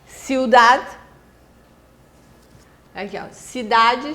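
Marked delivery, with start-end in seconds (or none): 0.1-0.8 "Ciudad" with a barely sounded final D; silent final D. Shown as a demonstration. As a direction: let the last D fade out. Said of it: "Terminar com o D mudo".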